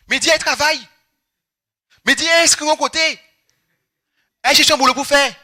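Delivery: high insistent mock family voice; nagging relatives voiced high and loud; imitating family. Family nagging him about work, high mock voice.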